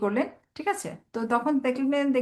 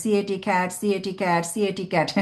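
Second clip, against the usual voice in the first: mock rote spelling; 2 semitones lower, slower than usual. Child chants spelling by rote, mocked by teacher. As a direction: chant সিএটি cat like a child memorizing. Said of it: "বানান মুখস্থ করতে হয়".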